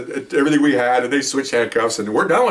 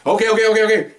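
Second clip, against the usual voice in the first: much higher, louder and fast, scrambling to calm things; panicked pleading; 11 semitones higher, 5 dB louder, faster than usual. Retold or imitated. Suspect facing a drawn gun, panicked high pleading. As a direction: babble reassurances to stop him from shooting.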